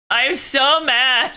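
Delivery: slow, high-pitched exasperation; so mad. Real, not acted.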